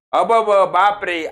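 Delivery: "अबब" drawn out in wonder; slow mock amazement. Shown as a demonstration. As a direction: show astonishment, stretching it. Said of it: "आश्चर्य दाखवतात".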